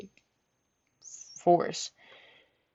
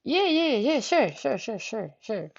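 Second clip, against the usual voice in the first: high start sliding down and fading; flustered string of yeses; shocked agreement; 5 semitones higher, 4 dB quieter, slower than usual. Retold or imitated. Agreeing to the hug while shocked, flustered. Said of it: "I'm over here shocked as a motherfucker".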